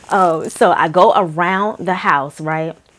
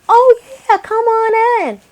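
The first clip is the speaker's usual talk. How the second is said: put-on much higher, odd old-person voice; creepy old homeowner; 7 dB louder than usual. Old couple answers the door.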